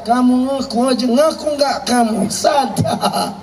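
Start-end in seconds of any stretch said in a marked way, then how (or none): 0.0-2.3 put-on eastern cop shouting in a Javanese accent; confess, now, in Javanese style. Timorese policeman interrogating in a Javanese accent, shouting. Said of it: "yang Timur logat Jawa".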